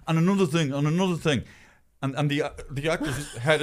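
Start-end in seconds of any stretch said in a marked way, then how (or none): 0.1-0.7 imitating Colin Farrell. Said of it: "with his head round some actor going". 0.7-1.4 imitating Colin Farrell. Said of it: "with his head round some actor going".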